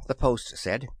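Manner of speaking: ordinary delivery, nothing marked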